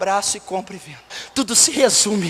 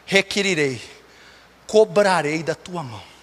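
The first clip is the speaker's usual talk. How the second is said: solemn scripture recitation; 2 semitones lower than usual. Real, not acted. God warning through the Bible, solemn recitation. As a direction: deliver it as a grave warning, phrase by phrase.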